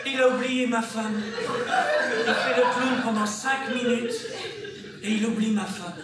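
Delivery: indignant disbelief. Acted. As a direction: protest in pained disbelief, voice lifted. Stunned husband realises wife was forgotten. (indignation incrédule)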